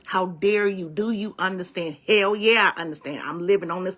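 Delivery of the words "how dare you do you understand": louder, offended outburst; mock indignant. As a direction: act out someone mad and affronted. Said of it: "a lot of people get mad".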